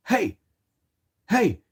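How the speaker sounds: high shouted call across the lot; mock yell. Teen calling out to strangers, yelled high. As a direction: holler at them from far off.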